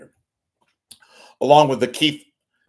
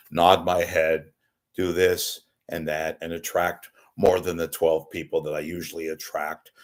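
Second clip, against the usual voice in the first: flat newsman delivery with no emotion; deadpan TV anchor voice; Anderson Cooper impression; 2 semitones lower than usual. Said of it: "it's my Ander-, Anderson Cooper".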